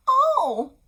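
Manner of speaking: high, loud wailing plea; crying wife. Acted. Sick wife begging husband for Rapunzel, wailing. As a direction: sob out the desperate plea. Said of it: "she said".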